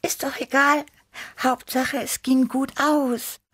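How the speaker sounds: high little cat voice waving it off; dismissive Tibi. A narrator's reading. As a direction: brush it aside like a carefree young cat. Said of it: "winkte Tibi ab".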